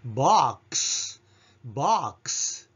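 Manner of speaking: ボックス, クス whispered and slowed; whispered ending. Shown as a demonstration. Teacher repeating ボックス for students to copy. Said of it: "ひそひそ声でクス".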